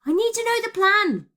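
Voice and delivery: loud, high demand; insistent. A narrator's reading. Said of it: "she insisted".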